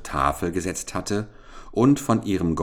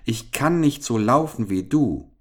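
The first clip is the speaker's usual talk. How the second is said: high, raised, pleading storybook call; crying after someone; 8 semitones higher than usual. A narrator's reading. Frog begs the runaway princess to wait, crying after her. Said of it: "so laut nachschrie".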